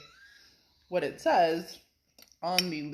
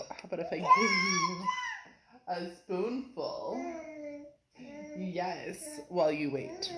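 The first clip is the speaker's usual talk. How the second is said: much higher sing-song coaxing voice, slowing down on "spoonful"; cooing to a pet; 12 semitones higher than usual. Real, not acted. Mother coaxing impatient Lily with a spoonful of food, high cooing voice.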